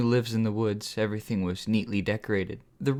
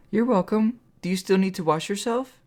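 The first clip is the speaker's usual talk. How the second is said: strangely excited; 9 semitones higher than usual. A narrator's reading. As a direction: gush with odd excitement. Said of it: "strangely excitedly".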